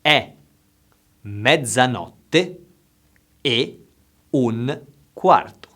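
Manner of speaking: slow and carefully enunciated; slow, over enunciating. Shown as a demonstration. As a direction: say each word slowly and clearly. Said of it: "I will say it slowly".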